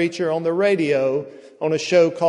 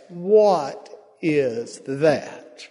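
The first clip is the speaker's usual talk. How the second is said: confused disgust; much slower than usual. Retold or imitated. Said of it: "with confusion and disgust on his face".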